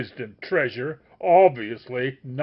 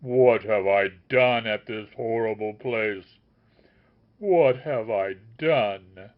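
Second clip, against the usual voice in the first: anguished lament; 7 dB louder than usual. A narrator's reading. The master wails over the dead sage, loud.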